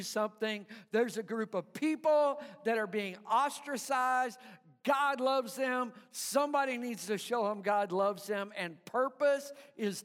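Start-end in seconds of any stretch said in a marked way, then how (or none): 4.8-5.9 preaching shout. Real, not acted. Preacher proclaims.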